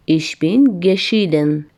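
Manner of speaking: very slow, word by word, stretched out. Shown as a demonstration. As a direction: drag it out for the class to repeat.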